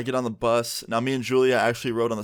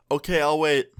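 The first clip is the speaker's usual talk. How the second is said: teacher's mock yell, pitched up; imitated yell; 5 semitones higher, 3 dB louder than usual. Teacher answering from outside the door, imitated mild yell. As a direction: call back higher, only a little louder. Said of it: "I hear her yell on the other side".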